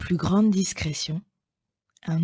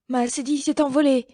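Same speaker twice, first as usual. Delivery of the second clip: higher, quick whiny complaint; a small cat fussing over its lost cedilla; high, hurried plaintive voice; complaining little cat; 7 semitones higher, faster than usual. Acted. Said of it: "se plaignait Petit Chat".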